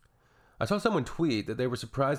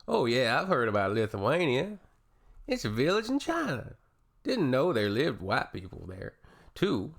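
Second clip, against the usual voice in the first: mock clueless commenter; 3 semitones higher than usual.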